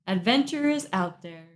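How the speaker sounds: deadpan, flat-toned quote; no enthusiasm. Shown as a demonstration. Told to say it right, a deadpan delivery. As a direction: read it like an encyclopedia. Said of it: "Kind of no enthusiasm".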